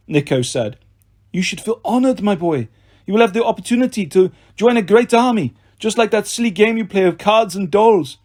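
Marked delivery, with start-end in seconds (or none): 1.3-8.2 condescending villain voice. Acted. Villain Doctor Fawn speaks.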